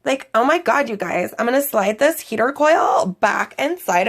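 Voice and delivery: put-on a light Valley Girl lilt, bubbly. Host switching the repair talk to a light Valley Girl voice. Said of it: "I kinda wanna do it in Valley Girl".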